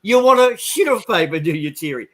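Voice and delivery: high mock French accent, teasing. Bartender mocking Thierry's French accent. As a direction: copy his accent to wind him up. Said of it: "taking the piss out of his accent".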